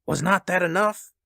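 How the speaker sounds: high, indignant question; fierce demand. A narrator's reading. Husband rebuking his wife's hope, fierce. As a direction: challenge her fiercely. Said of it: "he demanded fiercely".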